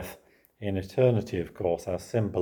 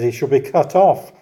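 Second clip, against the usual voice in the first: louder, higher scripture line; solemn reading; 5 semitones higher, 7 dB louder than usual. Real, not acted. Preacher reading the verdict aloud, grave. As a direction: declare it gravely. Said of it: "it says".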